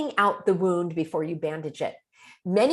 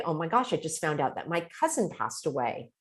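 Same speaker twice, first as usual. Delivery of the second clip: grieving friend; 3 semitones lower, 7 dB quieter than usual. Retold or imitated. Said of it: "where you have somebody say".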